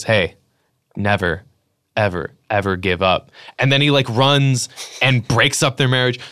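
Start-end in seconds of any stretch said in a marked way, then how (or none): 0.0-3.3 a hint of a cheesy rom-com best friend egging him on; mock best friend. Best friend urging the heartbroken guy not to quit, in mock earnest. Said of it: "the best friend character goes".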